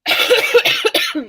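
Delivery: high, airless put-on squeak; Rebel. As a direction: squeak the word out like a friend. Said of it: "I'm gonna sound like Rebel".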